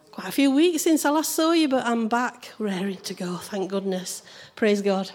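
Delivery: hoarse, croaky morning voice. Real, not acted. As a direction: speak through a croaky throat. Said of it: "apologise in advance for my croaky voice".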